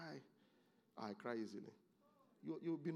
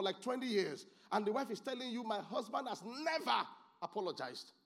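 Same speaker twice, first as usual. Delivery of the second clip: high, raised preaching voice; impassioned preaching; 8 semitones higher, 4 dB louder than usual. Real, not acted. Preacher urging leaders to build wise people, impassioned. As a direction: drive it home to the congregation, pitched high.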